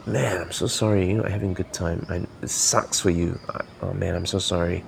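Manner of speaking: sympathetic demo. Shown as a demonstration. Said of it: "It's gonna be different if I say exactly the same words".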